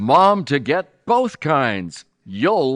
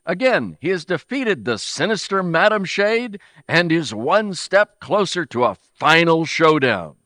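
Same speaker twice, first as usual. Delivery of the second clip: put-on bright old-time radio announcer sign-off; 4 semitones higher than usual. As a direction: wrap up the episode like a serial announcer. Radio announcer closes the episode.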